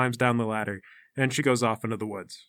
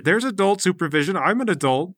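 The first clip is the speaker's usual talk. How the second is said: higher-pitched indignant protest; 5 semitones higher, 4 dB louder than usual. Acted. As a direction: protest as if insulted. Indignant rebuttal to player.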